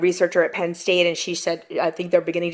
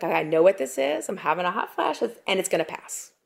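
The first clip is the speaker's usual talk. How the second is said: calm self-talk; 5 dB quieter than usual. Retold or imitated. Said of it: "saying to myself".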